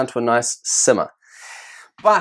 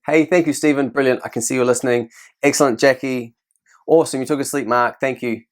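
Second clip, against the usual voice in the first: praising teacher demo. Shown as a demonstration. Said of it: "so I might go".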